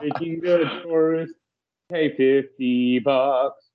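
slow, gloating official voice; smug Turnpike official. Pretend. Mocking New Jersey Turnpike collecting tourist money, slow gloating. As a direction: play the greedy toll authority, savoring each word. Voicing the greedy Turnpike authority.

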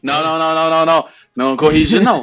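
laughing protest. Real, not acted. Begging friend not to correct.

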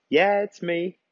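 mock Arkansas drawl on a phone answer; a broad Arkansas accent voiced by the husband; hardcore Arkansas accent. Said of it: "with this super hardcore Ar-, Arkansas accent".

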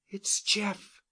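ordinary delivery

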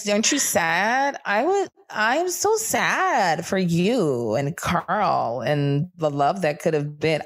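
slow, syrupy fake pity; mock sympathy. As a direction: lay the fake pity on thick.

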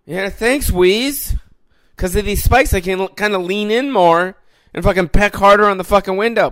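the bird mocking him back; high squeaky bird, cocky; smug bird voice. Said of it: "the bird is like".

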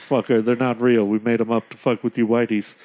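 low, deadpan chief putting a trader down; a hint of a scornful chief; Red Owl. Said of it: "Red Owl says".

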